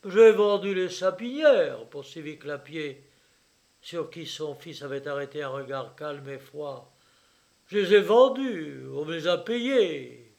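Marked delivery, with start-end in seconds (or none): 0.1-1.9 much louder, raised pitch; loud insistence. A narrator's reading. Father under his son's cold gaze, loud insistence. 7.7-10.3 louder, high, emphatic bluster; loud insistence. A narrator's reading. Father justifying the sale to his son, loud insistence.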